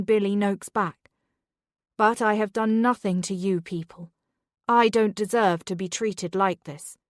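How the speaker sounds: loud, defiant protest; mother raising her voice at the headmistress. Acted. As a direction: stand your ground, raise your voice. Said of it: "can you please keep your voice down".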